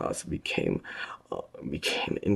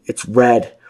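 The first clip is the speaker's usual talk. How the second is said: frightened call; 9 semitones higher, 15 dB louder than usual. A narrator's reading. Prisoner answers in fear.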